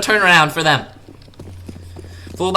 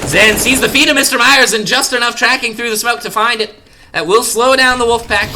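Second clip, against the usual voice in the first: excited; 6 semitones higher, 3 dB louder than usual. Real, not acted. Play called live.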